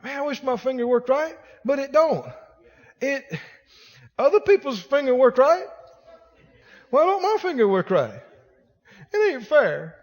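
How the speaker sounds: a hint of a whining complainer; lightly mocking self-pitying whine; whiny self-pity. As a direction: mope over the finger with a light whine. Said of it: "They'll focus on it and go".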